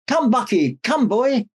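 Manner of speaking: calling out. Acted. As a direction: call the reindeer into the snow. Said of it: "called Santa".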